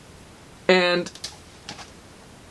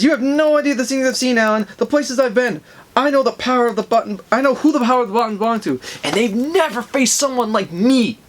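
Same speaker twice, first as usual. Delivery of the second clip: higher-pitched, acted boasting; cocky; 6 semitones higher than usual. Reverse Flash bragging about the places he's been, cocky. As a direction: brag like nothing can touch you. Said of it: "He's that cocky".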